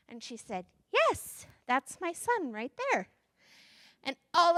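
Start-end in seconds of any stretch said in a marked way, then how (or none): 0.9-3.1 proud mother hen. Acted. Mother Chicken answers proudly.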